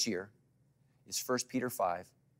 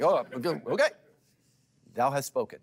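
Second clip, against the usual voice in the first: mock meek husband; 3 semitones higher, 7 dB louder than usual. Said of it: "He's like".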